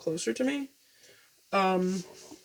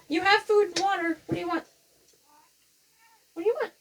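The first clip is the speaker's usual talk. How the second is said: pet talk; 11 semitones higher, faster than usual. Real, not acted. Owner asking her cat what it wants, high pet voice.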